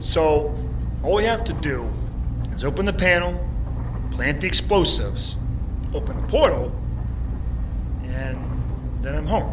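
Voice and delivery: can barely contain the hope; excited. Acted. Hero eager about going home.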